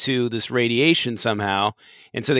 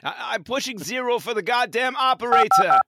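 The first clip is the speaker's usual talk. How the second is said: Picard voice; 8 semitones higher than usual. Pretend. Picard frustrated on phone.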